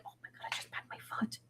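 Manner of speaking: breathy ghostly whisper; faint voice heard on the recording; spooky whisper. Retold or imitated. Imitating spirit voice in recorder.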